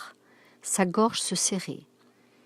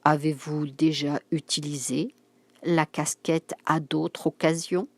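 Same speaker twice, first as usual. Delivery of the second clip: chaque syllabe de «Avez-vous déjà utilisé» bien séparée, doucement; syllabes détachées; 3 semitones lower than usual. Acted. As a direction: menace posée, syllabe par syllabe. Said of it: "Il détacha doucement chaque syllabe". (détacher doucement chaque syllabe)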